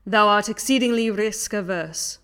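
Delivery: hammy stage actor. Acted. Young Dingus memo dramatized.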